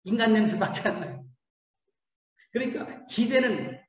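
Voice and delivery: ordinary talk, nothing marked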